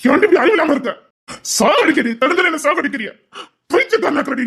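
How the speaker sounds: furious lover accusing her; angry scolding. Acted. Man yelling at lover.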